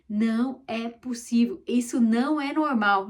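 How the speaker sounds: a touch of mock wonder; amazed disbelief. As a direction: marvel at it as if you can't believe it. Marveling at miracles.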